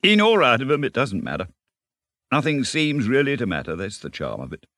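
high, excited, tumbling ramble; carried-away enthusiasm. A narrator's reading. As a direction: gush on eagerly, gathering speed. Rat enthuses about boating.

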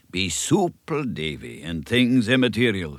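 a lightly voiced minister, dropping to a confiding hush; hushed Scots advice. Minister confiding to Davy in a hushed voice. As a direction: lean in and confide.

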